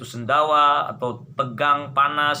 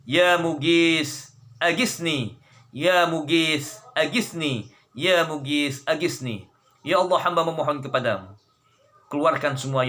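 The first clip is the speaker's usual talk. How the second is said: pleading prayer. Real, not acted. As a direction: plead humbly, line by line.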